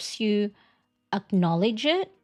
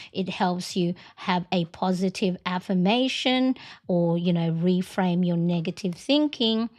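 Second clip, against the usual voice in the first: gentle nudge reminder. Pretend. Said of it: "it's like your little nudge".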